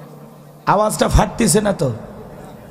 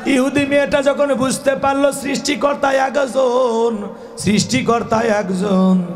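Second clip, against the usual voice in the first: preaching. Acted. Preaching to a crowd.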